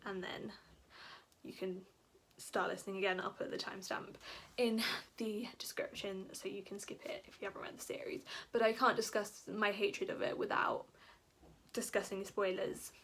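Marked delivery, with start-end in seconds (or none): 3.2-8.2 soft unvoiced whisper; whispered aside. Real, not acted. Vlogger whispering to viewers about skipping spoilers.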